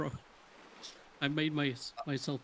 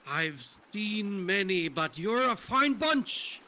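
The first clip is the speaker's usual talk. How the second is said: put-on slow, higher salty old sea dog; old pirate voice; 5 semitones higher, slower than usual. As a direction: drawl it like a kindly old pirate. Old pirate surf instructor speaks.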